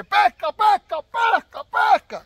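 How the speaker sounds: put-on high, loud childish whoop; mock excited yell. Mocking a Mexican angler who cheers a catch, loud childish yell. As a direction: yell like an eight-year-old with a new bike. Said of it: "como si fuera el chico de ocho años".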